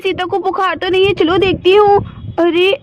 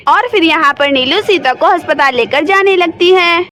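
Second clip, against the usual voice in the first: lower, even storyteller voice reading the scene; story narration; 3 semitones lower than usual. A narrator's reading. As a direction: narrate the action calmly between the scenes. Narration line. (कहानी सुनाने वाली आवाज़)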